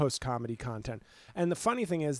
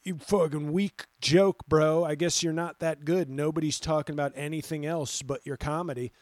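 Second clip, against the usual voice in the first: lightly voiced lonely troll jeering; mocking troll voice. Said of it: "going like".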